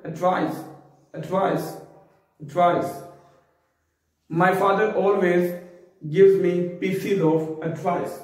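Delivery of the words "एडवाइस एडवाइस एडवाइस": एडवाइस kept short, ending in s; correct pronunciation drill. Shown as a demonstration. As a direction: repeat एडवाइस as a model, 'ad-VICE'. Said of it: "ई का लंबा नहीं करेंगे". (एडवाइस का सही उच्चारण, छोटा)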